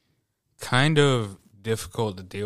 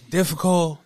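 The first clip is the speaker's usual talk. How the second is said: mock coworker trash talk; 6 semitones higher, 6 dB louder than usual. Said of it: "She's like".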